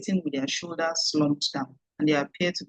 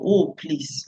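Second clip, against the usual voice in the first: exasperated. Shown as a demonstration. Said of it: "like the person is really getting on your nerves".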